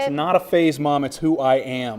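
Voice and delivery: put-on moody teen. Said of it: "There, you stopped it".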